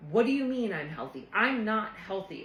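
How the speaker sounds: a touch of retold fury; angry retort. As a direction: snap back at dad in mild retold anger. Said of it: "And I got so mad".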